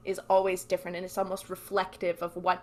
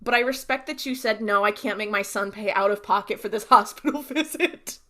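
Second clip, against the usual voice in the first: gushing; 2 semitones higher, 3 dB louder than usual. Retold or imitated. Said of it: "And I'm like".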